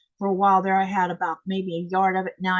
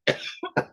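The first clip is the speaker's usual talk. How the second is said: choking cough. Real, not acted. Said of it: "That went down the wrong way".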